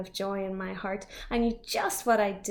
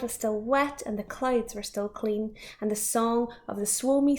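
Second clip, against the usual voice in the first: lightly voiced old storyteller, hushed; a hint of a weary old man beginning his tale; old Once-ler voice. Once-ler starts telling the visitor his story, lightly hushed. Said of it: "with his teeth sounding grey".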